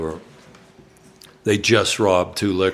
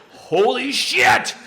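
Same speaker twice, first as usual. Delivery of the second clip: mock terrified; much slower than usual. Narrator terrified, gun aimed.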